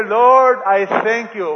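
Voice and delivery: joyful grateful prayer said out loud; cheerful thanks. Shown as a demonstration. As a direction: smile as you thank the Lord. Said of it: "You just smile. You say".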